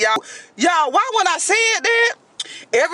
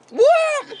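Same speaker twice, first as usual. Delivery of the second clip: shocked what; 12 semitones higher than usual. Real, not acted. Shock at date's story.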